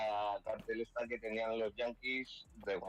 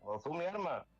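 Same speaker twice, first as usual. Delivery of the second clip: put-on light Andalusian accent, higher; 5 semitones higher than usual. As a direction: imitate an Andalusian saying Ozú. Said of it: "en Andalucía sería como".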